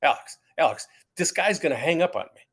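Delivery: loud, urgent aside; hammed-up alarm at losing the call; retold panic. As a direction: blurt it out in mock panic. Panics the call will end.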